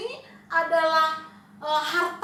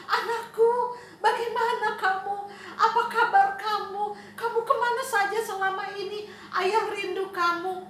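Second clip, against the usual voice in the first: higher, happy father, a little laugh; joyful father; 4 semitones higher than usual. Acted. Father embracing his lost son, joyfully. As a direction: gush over the son you missed.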